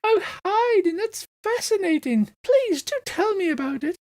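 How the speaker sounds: very high, fluting matron voice; matronly heron. Acted. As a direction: welcome them like a gushing matron, high-pitched. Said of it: "and she goes".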